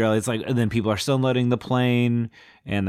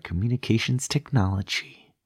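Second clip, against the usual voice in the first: restrained film-actress impression; a touch of tense screen scientist; Jodie Foster; 2 semitones higher than usual. Woman answering through grit teeth, lightly imitated film actress. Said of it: "Very Jodie Foster Lake".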